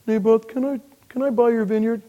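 whiny Ahab. Retold or imitated. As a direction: beg like a sulky child king. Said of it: "And he says".

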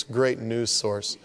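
slow dry sarcasm; sarcastic. Acted. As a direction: say it with dry irony. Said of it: "that was sarcasm".

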